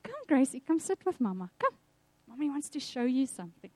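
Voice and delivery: a mother's gentle call, softening; calm and gentle. Retold or imitated. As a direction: gently coax the little girl to sit. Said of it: "I was very calm".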